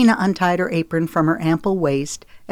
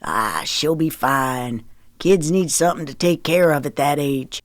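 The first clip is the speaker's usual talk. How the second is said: Daddy, unconcerned. Acted. Daddy dismisses Zoe's worry about the chicken, easygoing.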